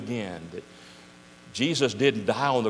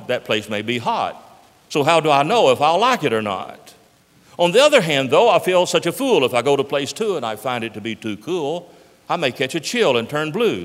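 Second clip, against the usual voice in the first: louder, dithering worrier; fretting Zode; 5 dB louder than usual. Acted. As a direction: weigh every option out loud in a panic. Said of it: "He said to himself".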